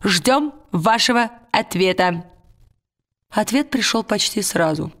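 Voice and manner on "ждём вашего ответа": lightly raised, crisp military report voice; formal spy report. Acted. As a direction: read it like a tiny soldier reporting to his lord. Tialis sends his report.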